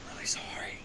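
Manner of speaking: breathy whispered apology after a laugh; whispering. Acted. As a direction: lean in and whisper it. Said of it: "I gotta whisper that part".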